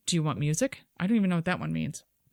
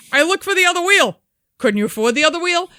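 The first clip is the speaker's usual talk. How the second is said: mocking bloke; 8 semitones higher, 7 dB louder, faster than usual. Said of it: "Minor variation".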